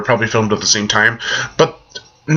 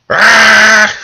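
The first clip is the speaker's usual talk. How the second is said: a long piercing yell, very loud; loud high scream; 10 semitones higher, 9 dB louder than usual. Acted. Screams after acting the quote.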